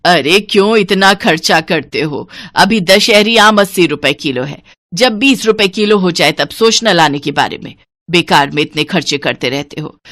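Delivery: lightly voiced nagging wife; stingy wife, scolding. Stingy wife chiding husband for buying mangoes, mildly cross. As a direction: chide him for spending, mildly cross.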